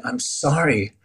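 remorseful begging, relived without full sobbing; imitating a desperate, repetitive apology; retold repeated pleading. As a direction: plead for forgiveness over and over, pitch lifted. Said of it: "saying over and over again".

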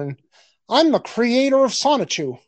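mock the way he talks, slightly up; imitating Chris Chan. Doing Chris Chan's voice for his co-host, lightly voiced. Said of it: "he talks like this".

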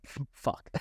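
a breathless, whispered f-fuck; whispered curse. Retold or imitated. Hearing the healer's warning, a stunned whispered curse. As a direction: whisper it in shock. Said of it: "I was like".

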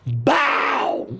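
high, sudden vocal bang; imitated gunshot bang. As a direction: burst out the gunshot noise. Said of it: "Que só escutei aquele barulho".

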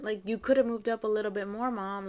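milder reproach, closer to everyday pitch; walk the complaint back a little; softened explanation. Retold or imitated. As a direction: imitate a daughter explaining what she meant. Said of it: "Like, I meant".

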